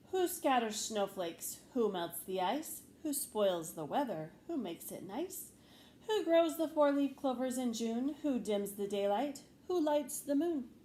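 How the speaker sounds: measured poetry recital; recited poem. Acted. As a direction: recite as if from a stage. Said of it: "as if from a stage".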